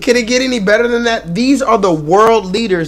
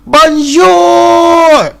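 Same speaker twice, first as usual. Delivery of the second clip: loud "Bonjour", pitched up, mock French; 7 semitones higher, 6 dB louder than usual. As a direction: sing out a hammed-up French "Bonjour". Quoting the French greeting.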